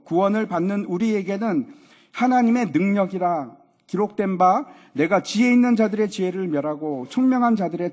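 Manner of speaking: loud, declaimed Bible reading; solemn pulpit read-aloud, voice projected; scripture reading. Acted. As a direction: proclaim the verses with force.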